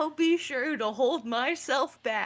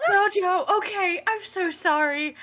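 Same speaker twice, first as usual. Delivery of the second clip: gasp of surprise; 7 semitones higher, 6 dB louder than usual. Acted. Mishearing his name, gasping apology.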